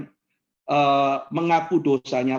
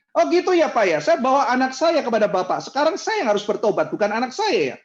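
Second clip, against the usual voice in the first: offended parent; 6 semitones higher than usual. Retold or imitated. Parent complaining to the pastor, indignant.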